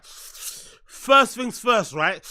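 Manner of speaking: drawn right out, very slow, first stretched; very slow repeat. Shown as a demonstration. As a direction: stretch first things first out mockingly. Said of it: "people that say I repeat myself".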